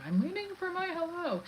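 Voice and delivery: high, soft singsong pupil; mock a needy student fishing for a greeting, voice lifted high; attention-seeking student. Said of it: "has to get the attention in the classroom".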